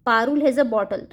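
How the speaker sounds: very slow, word by word; slow, clear dictation pace; slow example read. Shown as a demonstration. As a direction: read it out slowly for children. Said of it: "जैसे यहाँ लिखा है".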